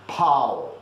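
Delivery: pow said plain, no nasal sound; non-nasal pow. Shown as a demonstration. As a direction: say it without nasalizing. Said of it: "if you don't nasalize pão".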